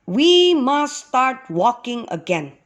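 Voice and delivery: lightly voiced leader giving the order; lightly urging leader. A narrator's reading. Moses calling everyone together in the morning, lightly urging.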